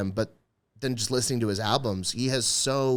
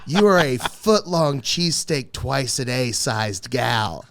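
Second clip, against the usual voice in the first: louder, slow retold roast of the heckler; comic roasting a heckler, louder; stage put-down; 2 semitones higher, 6 dB louder, slower than usual. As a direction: land the insult hard and slow.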